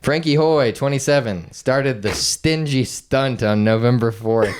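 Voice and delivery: steady news-copy reading; measured reading from a printed article; article read-aloud. Real, not acted. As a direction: read the story out evenly.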